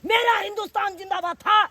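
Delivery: shouted Gadar-style film dialogue; dramatic punchy hero lines. Acted. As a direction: bellow it like a movie hero. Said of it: "Gadar film का dialogue".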